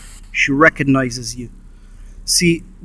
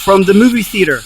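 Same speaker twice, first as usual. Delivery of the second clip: calling out; 4 semitones higher than usual. Real, not acted. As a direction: call out into the dark room. Calling out to the ghost.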